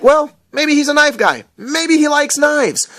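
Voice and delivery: high, slowed mock voice; mock musing voice. Inner thought voiced in a put-on voice.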